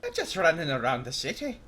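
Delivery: badly faked Irish bloke accent; attempted Irish accent. Shown as a demonstration. Streamer joking with viewers about accents, improper Irish accent. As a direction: have a clumsy go at an Irish lilt. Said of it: "don't know how to do accents properly".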